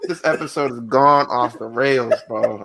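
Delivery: talking through real laughter; amused, words carried on a laugh; laughing remark. Real, not acted. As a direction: say it while still chuckling. Host laughing at derailed show.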